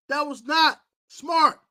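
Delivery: each word slow and heavy; slow scolding. Real, not acted. Host scolding a player, slow and deliberate.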